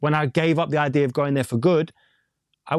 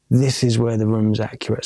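deliberate repeat; 5 semitones lower than usual. Retold or imitated. Engineer repeats it when questioned.

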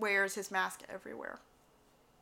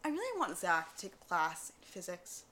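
muttered aside; 5 semitones lower, 8 dB quieter than usual. Retold or imitated. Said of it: "I'm like".

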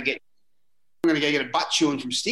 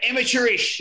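high-pitched imitated yell of a coach; mock yell; 9 semitones higher, 4 dB louder than usual. Coach yelling at a player through the video session, imitated yell. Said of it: "he was just yelling out".

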